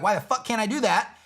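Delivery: mock exasperation. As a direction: complain like a user who has had enough. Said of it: "they start to get angry and upset".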